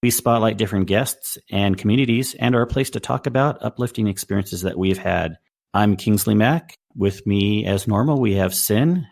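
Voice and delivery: upbeat announcer read; podcast host intro. Acted. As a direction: welcome listeners like a show host.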